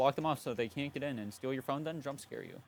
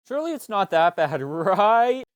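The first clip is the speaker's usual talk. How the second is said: sarcastic; 7 semitones higher, 14 dB louder, slower than usual. Pretend. Sarcastic hope after listing scandals.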